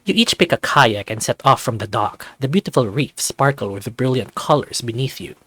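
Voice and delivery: even, clear storyteller voice; story narration. A narrator's reading. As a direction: paint the morning scene for the listener. Narrates the paddle out.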